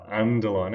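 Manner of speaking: "underline" punched with rising pitch; stress on UNDERLINE. Shown as a demonstration. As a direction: lean on the word "underline". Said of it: "a little bit of stress".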